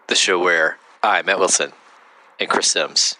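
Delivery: low, sexy radio voice. Real, not acted. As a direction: purr it low and sexy like a late-night host. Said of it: "Why do I sound so low and sexy?".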